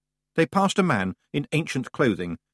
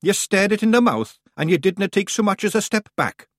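brisk, higher Scots brogue for the wee man; Scottish Feegle voice; 9 semitones higher, 4 dB louder than usual. A narrator's reading. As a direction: play the cocky little Scot. Rob Anybody voiced in Scots.

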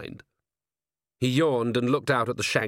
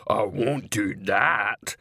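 shocked troll; much slower than usual. A narrator's reading. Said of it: "Igneous looked shocked".

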